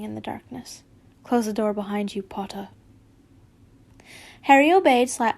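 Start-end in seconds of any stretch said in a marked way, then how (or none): 1.2-2.7 hushed, clipped order in a whisper; quiet. Acted. Snape's cold order in dark. 4.4-5.3 flustered. Real, not acted. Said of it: "my heart just, like, skipped a beat".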